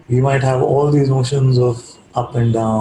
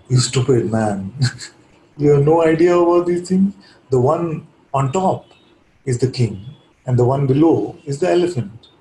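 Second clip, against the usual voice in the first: a hint of impatient scorn, lightly voiced; mildly irritated scolding; 3 semitones higher than usual. Disciple scolds the disguised guru, mild mock irritation. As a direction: scold the beggar, only half in earnest. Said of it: "this man is irritated".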